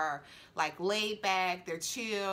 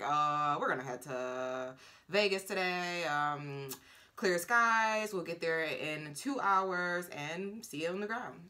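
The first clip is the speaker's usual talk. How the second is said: pilot intercom voice; 2 semitones lower, slower than usual. Retold or imitated. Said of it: "they have this captain pilot voice".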